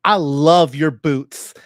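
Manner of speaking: loud, drawn-out gay-voice compliment. Retold or imitated. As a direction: put on a gay voice, gushing slowly. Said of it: "if you do a gay voice".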